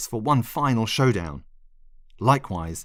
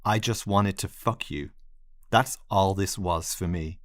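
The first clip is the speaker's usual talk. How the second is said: cold, clinical. Acted. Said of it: "In a cold, clinical voice".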